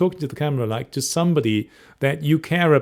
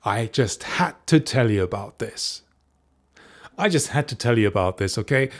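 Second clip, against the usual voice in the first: excited must-share. Shown as a demonstration. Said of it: "a very different tone might be".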